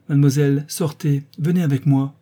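the marquise orders Justine out loudly. Acted. Loud command. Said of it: "Elle élève la voix".

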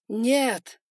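loud anguished shout; yelled no. Acted. Son yelling at his father again, loud shout. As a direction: scream it out. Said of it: "снова проорал Эван Байринг".

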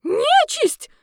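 very high, loud shriek; shrieking lady. Acted. A horrified lady shrieking at the monster. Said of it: "заверещала какая-то дама".

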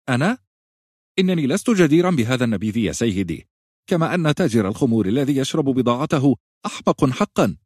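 laughing. A narrator's reading. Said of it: "قال الرجل ضاحكا".

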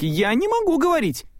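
высоко и торопливо, в панике; отмахнись в суматохе; паника. A narrator's reading. Майк отбивается от Селии. (Майк в панике отвечает Селии высоким голосом)

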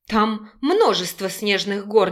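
plain reading voice

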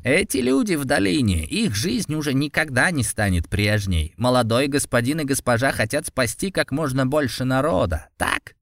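sincere sorrow, lightly voiced old priest; sad. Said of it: "С искренней печалью в голосе".

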